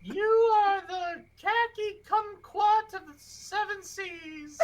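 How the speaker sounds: laughing. Real, not acted. Laughing compliment.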